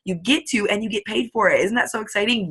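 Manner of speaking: cheering a new recruit on; gushing excitement. Retold or imitated. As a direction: sell it like the best news ever. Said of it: "I'm like".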